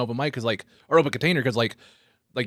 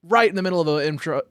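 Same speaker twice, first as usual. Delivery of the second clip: high on weed; talking while stoned; stoner; 7 semitones higher, 3 dB louder than usual. Real, not acted. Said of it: "I'm really high right now".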